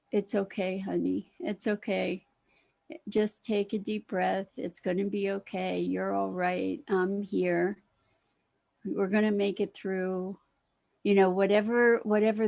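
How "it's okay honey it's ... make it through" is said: tender self-soothing. Shown as a demonstration. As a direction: hush them like a frightened child. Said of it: "talk to ourselves and say".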